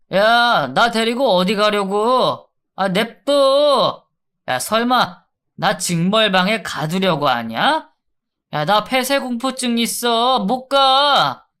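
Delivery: loud sneering voice of the inmate, dragged at the end; a cocky prisoner mocking his guard; thug taunting. Inmate sneering at the guard who escorts him, loud and mocking.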